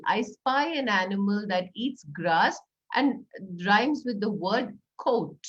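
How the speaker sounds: slow, playful riddle. Shown as a demonstration. Teacher posing an I spy riddle, slow and playful. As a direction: tease the children with the clue. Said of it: "Do an "I spy" riddle".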